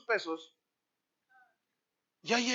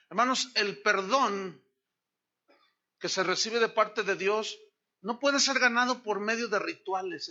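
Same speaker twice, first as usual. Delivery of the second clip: emphatic preaching. Acted. Preaching at full force.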